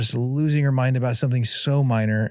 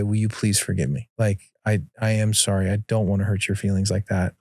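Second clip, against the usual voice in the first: lower-pitched, gently contrite; humble apology; 3 semitones lower than usual. Retold or imitated. Dad apologizing to his daughter after losing patience, humbly contrite. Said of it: "eat crow again for the billionth time".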